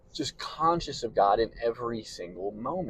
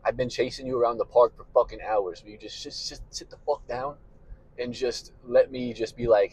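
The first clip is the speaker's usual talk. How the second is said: exasperated God. Retold or imitated. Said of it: "And God's just like".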